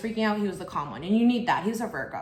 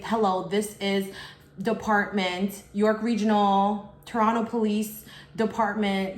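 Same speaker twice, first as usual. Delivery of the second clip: slow, formal official intro; proper police greeting; slower than usual. Shown as a demonstration. Real police introducing themselves, slow and formal. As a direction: sound like a real officer stating who they are. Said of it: "they say".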